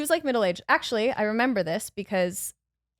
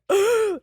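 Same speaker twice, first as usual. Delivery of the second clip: gasp; 11 semitones higher, 5 dB louder than usual. Retold or imitated. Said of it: "everyone's like".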